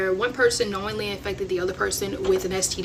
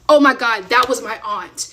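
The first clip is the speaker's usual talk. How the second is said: louder, astonished exclamation; retold astonishment; 2 semitones higher, 5 dB louder than usual. Lady learns the story is about her aunt, astonished. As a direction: act out a stranger's sudden realization.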